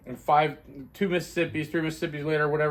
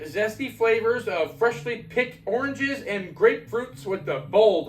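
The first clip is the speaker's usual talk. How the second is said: product blurb read; 3 semitones higher than usual. Acted. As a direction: sell it like a beer commercial. Reads product blurb aloud.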